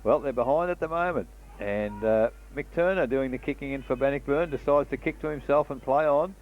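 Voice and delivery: quick radio football call; country radio footy commentary; live play-by-play. Acted.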